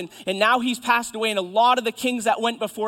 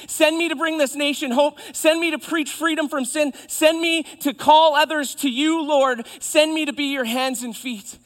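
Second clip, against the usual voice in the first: high, loud, mounting plea; impassioned cry; 7 semitones higher, 6 dB louder than usual. Acted. Isaiah begs the Lord to send him, crying out. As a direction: hammer each repeated request with fervor. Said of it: "Isaiah cries".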